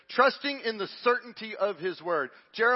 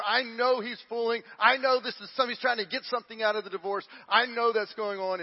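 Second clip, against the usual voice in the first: insistent suspicion; 5 semitones higher, 4 dB louder than usual. Retold or imitated. Wife voiced as suspicious, testing him.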